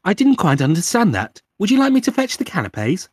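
high, loud mock-butler politeness; over-polite British servant parody; British butler assistant. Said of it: "sees us as fucking butlers".

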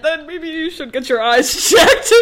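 loud, high retort broken by a laugh; tearful snark; snapping back at the ex mid-breakup; laughing through tears. Retold or imitated. Retort while crying and laughing.

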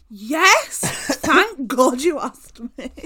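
loud, drawn-out pretend relief; hammed-up delight at being asked; mock overjoyed. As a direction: exclaim it as if desperately grateful. Acts overjoyed reply to weed question.

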